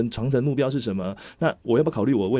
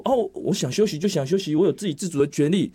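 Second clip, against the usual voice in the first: high, louder voice imitating a self-entitled student; mock student protest; 8 semitones higher, 3 dB louder than usual. Student claiming the right to rest, mock protest. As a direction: act out a student loudly insisting on rights.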